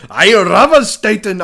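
high, loud, drawn-out imitation; mock foreign-film holler; mimicked movie yell. Mimics the yelled film line.

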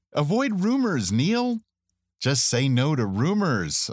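drawn-out, teasing plea to steer clear; playful admonishing. Pretend. Host teasing a caller about rumors, playful admonishing.

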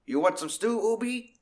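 high, friendly offer of stew; Bob offering stew. Retold or imitated. Bob the cook offering Obi stew, high and friendly. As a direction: lift it up like a kindly cook. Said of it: "Bob comes over and is like".

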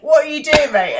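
high, loud alarmed call; alarmed shout. Retold or imitated. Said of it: "they're like".

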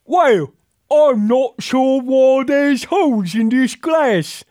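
put-on high, loud, slow posh English accent; mock posh English. Host mocks English folks with a posh accent. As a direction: play a fussy upper-class Englishman. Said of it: "The terribly insulting ... depiction of English folks".

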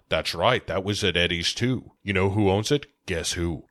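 lightly voiced Scottish star impression; Sean Connery. Senior detective briefing his partner, lightly imitated Scottish star. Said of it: "Sean Connery is like".

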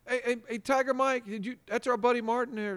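high, teasing radio-host voice; spring the surprise with a grin in the voice; Bernie impression. Radio host Bernie springs a surprise caller on Martin. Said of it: "And he's like".

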